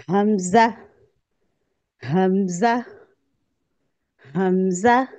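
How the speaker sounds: हमजा recited slowly with a rising end, for repeating; recitation demo. Shown as a demonstration. Teacher recites हमजा for students to repeat, clear. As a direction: model हमजा clearly, letting it lift at the end. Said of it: "पढ़िए मेरे साथ".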